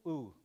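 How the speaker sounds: K burst, gap, then "ooh"; separated K and ooh. Shown as a demonstration. Teacher contrasting with all together, "ooh" held back. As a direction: pop the K and wait before "ooh". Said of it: "It's kinda like a".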